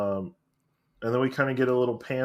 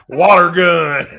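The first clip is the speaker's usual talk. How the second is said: loud, drawn-out Texan imitation; high, loud Texas twang; mock Texas accent; 6 semitones higher, 11 dB louder, slower than usual. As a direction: shout it in a hammed-up Texas accent. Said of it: "when did Red get a Texas accent".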